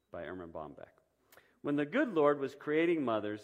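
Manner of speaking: reading a story aloud to the congregation. A narrator's reading. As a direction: tell it gently, giving each figure a touch of voice. Reads Mother's Day story aloud.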